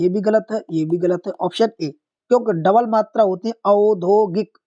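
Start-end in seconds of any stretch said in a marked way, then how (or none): 3.6-4.6 औद्योगिक with a clear opening "au"; correct initial diphthong. Shown as a demonstration. Teacher showing the double vowel sign, clear "au" in औद्योगिक. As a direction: sound out "au-dyo-gik" in औद्योगिक. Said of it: "पढ़ने में भी आना चाहिए".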